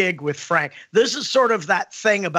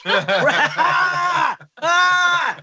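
high laughing yelp, much higher; a high whooping shout of delight; 9 semitones higher than usual. Real, not acted. Delighted cry at the punchline.

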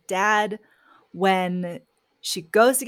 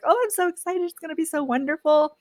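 put-on much higher, gushing with childlike excitement; mock excited; 9 semitones higher, faster than usual. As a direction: bubble over like a kid dreaming of a new country. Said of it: "where she's like".

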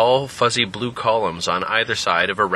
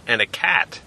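talking cow; 2 semitones higher than usual. Acted. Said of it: "said the cow".

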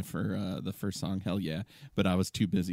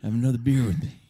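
put-on getting drunker; faster than usual. Repeats line in drunk voice.

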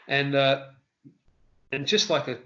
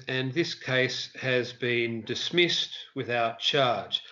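judge's ruling; 2 semitones lower, much slower than usual. Retold or imitated. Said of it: "the judge goes".

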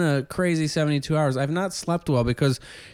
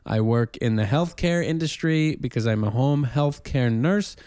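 Eugene Simonson voice. Pretend. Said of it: "this accent of a new character".

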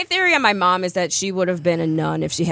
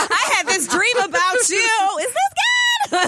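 mock dreamy confession; 12 semitones higher than usual.

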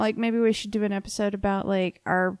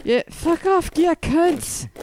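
higher, louder cheeky insult; rowdy sign-off; 8 semitones higher, 6 dB louder, slower than usual. Acted. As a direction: shout it like a rowdy joke. Jokey podcast sign-off, louder.

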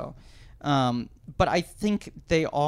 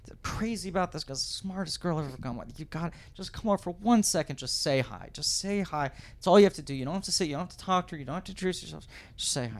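frantic pleading; 5 semitones higher, faster than usual. Retold or imitated. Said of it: "Stammering, tripping over his words".

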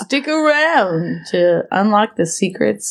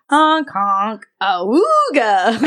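silly clown; slower than usual. Pretend. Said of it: "We both made ridiculous noises".

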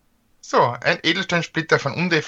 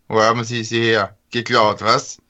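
rusty robot; 3 semitones lower than usual. Acted. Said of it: "knirscht die Roboterstimme".

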